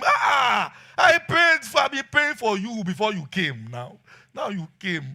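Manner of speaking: put-on high shouted baby voice; daughter's scream. Pastor voicing his baby daughter screaming at his beard. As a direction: shriek it like a toddler seeing the beard. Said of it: "she will scream".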